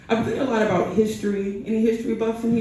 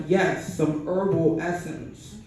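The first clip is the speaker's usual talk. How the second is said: slow and deliberate, spelling it out; slow insistent repeat; much slower than usual. Acted. To the confused barber, slow and deliberate. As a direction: stretch the yes and lean on each word. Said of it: "And I'm like".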